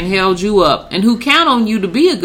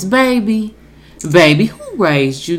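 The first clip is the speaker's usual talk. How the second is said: Black mama voice. Pretend. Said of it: "in my best black mama voice".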